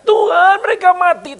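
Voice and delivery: high, loud desperate cry to God; Moses crying out. Retold or imitated. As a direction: cry out to the Lord in alarm. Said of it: "Musa teriak". (Musa berseru keras dan tinggi kepada Tuhan)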